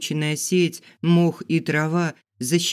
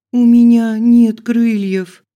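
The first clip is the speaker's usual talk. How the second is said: high, loud, slow wail; desperate cry; 8 semitones higher, 12 dB louder, slower than usual. Acted. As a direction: cry it out hopelessly. Desperate answer.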